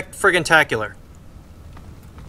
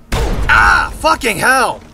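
startled shout; 2 semitones higher, much slower than usual. Real, not acted. Attacked suddenly in game.

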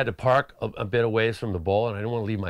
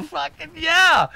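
high, loud, drawn-out cheer of victory; stretched-out joyous yell; triumphant whoop; 10 dB louder, slower than usual. Retold or imitated. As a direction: celebrate like you just got signed. Celebrating getting signed.

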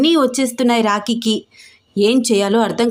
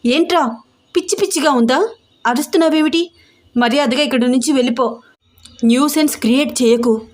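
angry warning; 2 semitones higher, faster than usual. Acted. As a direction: scold him and order him away. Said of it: "కోపంగా warning ఇచ్చి".

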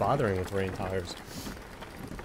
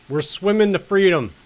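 excited; 6 semitones higher, 9 dB louder than usual. Real, not acted. Triumphant swim in game.

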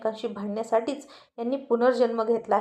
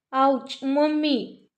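slow drawn-out cry of pain; ouch cry; 3 semitones higher, much slower than usual. Acted. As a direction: stretch the ouch like it hurts. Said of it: "असं म्हणून स्वीटी ओरडायला लागली".

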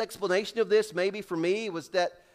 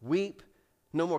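quiet, gentle weep no more; soft repetition; 3 semitones lower than usual. Real, not acted. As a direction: say it softly once more. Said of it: "three of the most beautiful words".

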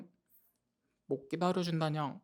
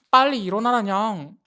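put-on loud cutesy cat-girl yell; shouting wake-up; 2 semitones higher, 8 dB louder than usual. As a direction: yell at the sleeper to get up. Wake-up call, repeated shouted.

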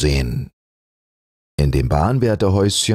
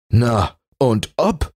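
mildly proud; 7 semitones higher than usual. Acted.

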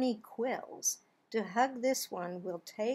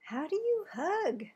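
higher lilting question, dropping at the end; sing-song question; 4 semitones higher, 4 dB quieter than usual. Acted. Final refrain to kids, lilting question. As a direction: lift it up then let it fall.

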